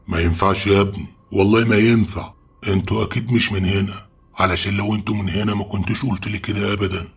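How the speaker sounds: agitated refusal, pitched a bit up; angry. Acted. Sheikh forbidding young men to stay overnight, angry. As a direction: refuse firmly, worked up and insistent. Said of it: "الشيخ وقتها اتعصب وقال لنا".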